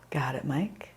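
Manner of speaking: soft unvoiced whisper; whispered aside. Real, not acted. Instructor whispering encouragement to Mike, soft whisper. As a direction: breathe it to him quietly.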